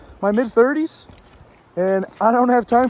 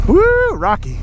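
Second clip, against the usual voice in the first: excited whoop; 10 semitones higher, slower than usual. Real, not acted. Cheering while riding.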